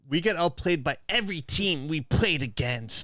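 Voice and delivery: put-on voice reading chat. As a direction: read the chat in a silly voice. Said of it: "Voices are crazy".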